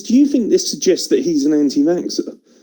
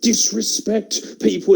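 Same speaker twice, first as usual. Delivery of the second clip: mock outraged critic; 9 semitones higher, slower than usual.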